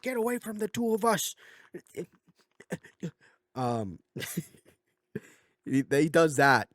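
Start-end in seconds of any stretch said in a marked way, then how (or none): 0.0-1.4 high, squeaky mock outburst; upset child's threat. Son warning his dad off, mock high-pitched threat. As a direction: imitate a worked-up kid in a raised-pitch voice.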